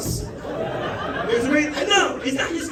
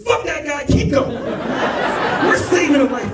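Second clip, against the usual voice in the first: urgent yell; 3 semitones higher, 6 dB louder, much slower than usual. Retold or imitated. Dispatcher urging on CPR.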